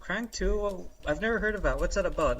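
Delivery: lightly voiced doubtful questioning; puzzled question. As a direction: ask it like someone who's never heard of it. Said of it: "and then she asks".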